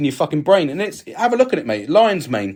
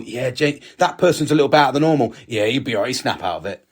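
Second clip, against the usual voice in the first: dismissive blokes; 4 semitones lower than usual. Retold or imitated. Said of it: "Men seem to think".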